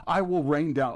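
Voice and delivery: mock presidential threat; quoting Trump. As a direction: puff up like a blustering president. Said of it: "His little off-the-cuff fire and fury".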